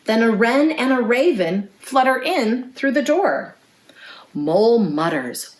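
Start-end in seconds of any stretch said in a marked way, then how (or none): none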